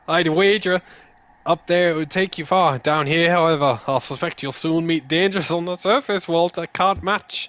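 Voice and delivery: a hint of the put-on adventurer, slipping back; fading character voice. Gamer reading game dialogue in fading accent. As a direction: keep the knight voice lightly, letting it fade. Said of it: "I've lost the accent entirely".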